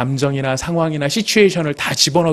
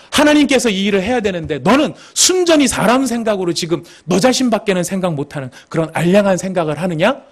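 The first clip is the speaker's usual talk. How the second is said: higher, emphatic scolding, easing off; stern reprimand; 5 semitones higher than usual. Acted. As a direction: take the disciple to task. Paraphrased scolding of Peter. (꾸짖듯 다그치며)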